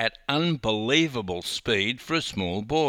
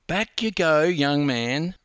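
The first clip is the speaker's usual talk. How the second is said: insistent grandma; 6 semitones higher, 3 dB louder than usual. A narrator's reading. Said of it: "she insisted".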